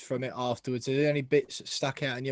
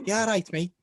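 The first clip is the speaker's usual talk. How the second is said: higher, amateur Scouse impression; Scouse attempt; 6 semitones higher, 5 dB louder than usual. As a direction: try out a jokey Liverpudlian accent. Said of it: "I could do Scouse, I think".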